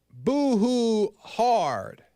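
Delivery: hammed-up crying words, very slowly drawn out; mock boo-hoo. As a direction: stretch it like a playful fake sob. Mocking man tears sermon.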